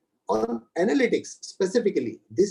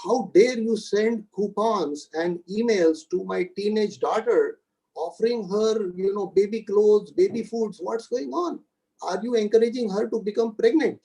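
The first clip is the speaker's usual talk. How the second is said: father confronting the store manager, a retold angry complaint in a higher voice; imitating an irritated father; 3 semitones higher than usual. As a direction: play the upset father demanding answers, pitched up. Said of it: "he started yelling at the store manager".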